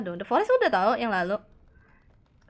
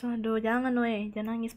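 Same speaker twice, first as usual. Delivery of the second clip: normal talking voice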